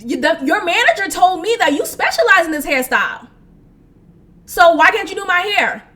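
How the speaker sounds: retold indignant telling-off; mock-outraged customer complaint; going off. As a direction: confront her, mildly heated. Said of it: "And I'm going off".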